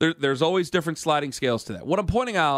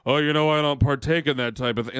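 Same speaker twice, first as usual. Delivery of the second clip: a hint of a prissy denial; evasive dodge. Mocking Pierno's evasive answer, lightly prim. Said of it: "clammed up and did the".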